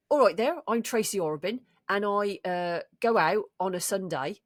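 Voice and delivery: lightly put-on regional accent, Brummy-tinged; Tracy's regional accent. Trying Tracy's accent out of the blue, lightly put-on regional accent. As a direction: slip into Tracy's accent, not quite West Country. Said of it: "difficult to do Tracy's accent".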